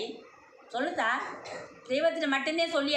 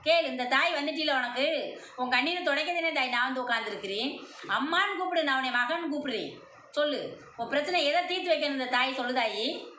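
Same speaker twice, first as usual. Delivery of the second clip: possessed goddess voice. Acted. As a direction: proclaim as the mother goddess in trance. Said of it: "அம்மா அருள்ல வந்து சொல்லிச்சு".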